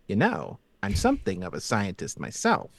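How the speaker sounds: understated movie-scientist impression; Willem Dafoe. Shown as a demonstration. Game master showing his anchor phrase, lightly voiced impression. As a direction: lightly slip into a famous actor's voice. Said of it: "when I wanna do the Willem Dafoe voice".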